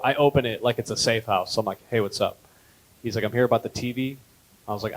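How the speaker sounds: low, quiet, fast tough-guy mumble; a hint of a hard man, low and hushed; tough guy act. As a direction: play it like a shady street dealer. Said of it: "I was so in character".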